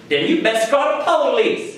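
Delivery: high, slow, drawn-out send-off; imitated passerby retort. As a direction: play the unimpressed passerby, stretching each word. Passerby's parting retort in story.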